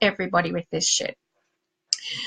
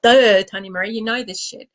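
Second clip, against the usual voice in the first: laughing at herself. Real, not acted. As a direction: laugh it off at your own mistake.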